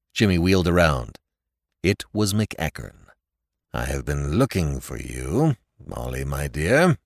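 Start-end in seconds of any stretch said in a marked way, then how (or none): 3.7-7.0 a lower, heavy father's voice; a stern father finds his daughter outside at night; heavily. A narrator's reading. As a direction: weigh each word down, slow at the end. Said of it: "he said heavily".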